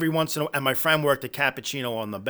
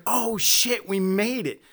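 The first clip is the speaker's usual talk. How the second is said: high and laughing, thrilled we made it; excited laughing exclamation; 8 semitones higher, 4 dB louder, slower than usual. Retold or imitated. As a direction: burst out with delighted disbelief, laughing. Retelling excited reaction to Dice.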